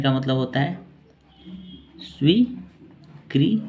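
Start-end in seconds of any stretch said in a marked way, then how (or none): 2.0-3.6 स्वीकृति drawn out very slowly, rising higher; slow dictation. Shown as a demonstration. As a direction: stretch स्वीकृति out slowly with a lifted pitch. Teacher dictating the meaning. (स्वीकृति बहुत धीरे, ऊँचे सुर में खींचकर)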